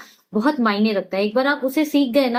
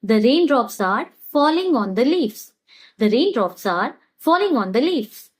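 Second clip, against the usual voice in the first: very slow, word by word for learners; slow teaching demo; much slower than usual. Shown as a demonstration. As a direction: spell it out slowly so students can repeat. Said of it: "इसे कैसे कहेंगे?". (धीमे-धीमे सिखाते हुए)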